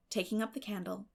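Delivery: ordinary delivery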